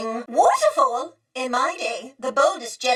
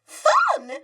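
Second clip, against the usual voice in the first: high laughing shout of the word; laughing exclamation. Acted. Droid explaining droid fun, laughing high. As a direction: toss it out on a laugh.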